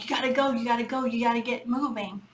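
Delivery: fast, pushy mock yell at the kids; a mother hurrying late kids to school, mild fast yell; retold hurried yelling. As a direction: rush them out the door, half-yelling. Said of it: "and I would just yell".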